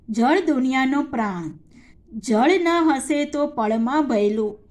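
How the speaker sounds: put-on measured children's poem recital; poem recitation. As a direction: recite the verse clearly to young pupils, line by line. (બાળકો માટે કવિતાનું પઠન)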